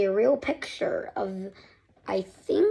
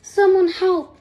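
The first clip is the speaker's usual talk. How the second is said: louder, higher plea for help; weak coughing plea; 7 semitones higher, 8 dB louder than usual. Acted. Paxton calling out from the smoky ship, desperate plea. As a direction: call for help through smoke. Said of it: "coughed Paxton".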